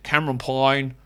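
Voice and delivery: "Payne" as "Pine" in fake Australian; bad Australian accent. Shown as a demonstration. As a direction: put on a botched Australian accent. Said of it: "let's just do it in a bad Australian accent".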